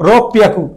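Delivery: রব পিয়াকু with a stopped double p, "rop-piaku"; pronunciation demo. Shown as a demonstration. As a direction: hold the p between রব and পিয়াকু. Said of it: "উচ্চারণ হবে". (রব পিয়াকু-তে দ্বিত্ব প উচ্চারণ)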